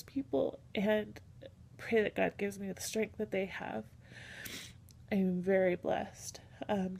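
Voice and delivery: holding back real tears, voice lifting slightly; on the edge of crying; a little teary. Real, not acted. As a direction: share it while tearing up a little. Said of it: "tearing up the little bit".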